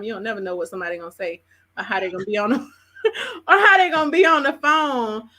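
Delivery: words breaking into laughter, fast; laughing. Real, not acted. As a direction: laugh through the line. Host laughs mid-sentence.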